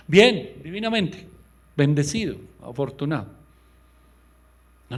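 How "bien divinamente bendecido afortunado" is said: forced upbeat answer; brightly pretending all is fine. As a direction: fake cheerful. Fake cheerful answer to how are you.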